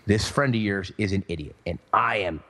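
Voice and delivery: a low, simmering mock of his wife; angry wife. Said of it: "my wife is not happy".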